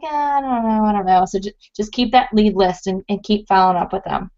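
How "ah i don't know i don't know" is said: hesitant prospect. Retold or imitated. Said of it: "they're like".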